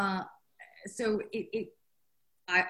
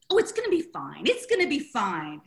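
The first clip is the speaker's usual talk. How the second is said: loud, over-bright insistence, pitched up at first; panicky reassurance; 5 dB louder than usual. Retold or imitated. Author reassuring her editor with pounding heart, mock-confident. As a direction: insist loudly while secretly panicking. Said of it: "where my heart's going like".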